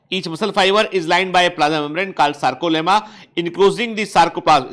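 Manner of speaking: reading the English definition slowly, word by word; slow textbook reading. Acted. Teacher reading the textbook to students, slow dictation pace. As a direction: spell out the textbook line for the class.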